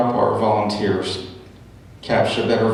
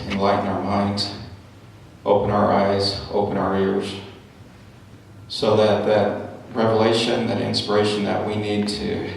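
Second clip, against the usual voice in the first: opening prayer. Real, not acted.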